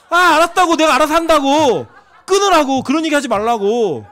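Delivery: laughing hammed-up annoyance; laughing mock snap. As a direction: brush her off and hang up. Retold snapping at mother on phone.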